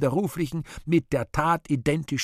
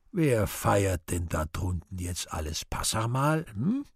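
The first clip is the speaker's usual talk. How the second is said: slow, calm asking; much calmer; slower than usual. Acted. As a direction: settle down, ask it gently. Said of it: "viel ruhiger geworden".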